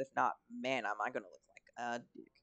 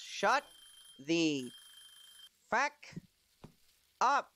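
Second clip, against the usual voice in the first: mock outburst; 6 semitones higher, 5 dB louder, much slower than usual. Outburst at the game.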